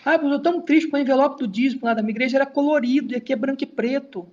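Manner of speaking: lightly whiny church member, fast; mock whiny complaint. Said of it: "umas tristeza boba". (queixa chorosa e fingida de fiel)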